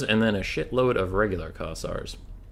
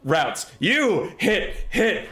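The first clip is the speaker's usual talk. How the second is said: excited; 7 semitones higher, much slower than usual. Real, not acted. Excited gaming reaction.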